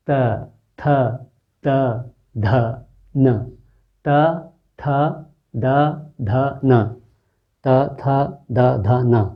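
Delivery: त, थ, द, ध, न said letter by letter at the teeth; dental letter demo. Shown as a demonstration. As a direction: sound out त थ द ध न with the tongue on the teeth. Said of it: "दांत का सिरा और जीभ का सिरा".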